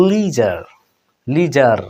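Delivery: লিজার with the r clearly said at the end; লিজার, r sounded; full final r. Shown as a demonstration. Teacher stressing the American final r in লিজার. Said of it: "শেষে আর উচ্চারণ হবে".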